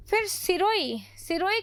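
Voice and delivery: breathy whisper of a name. Real, not acted. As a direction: whisper it like a secret to the class. Teacher whispers place name.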